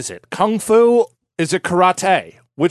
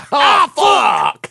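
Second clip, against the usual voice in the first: shouted pun; 9 semitones higher, 4 dB louder than usual. Acted. Punning on name Ah Fook.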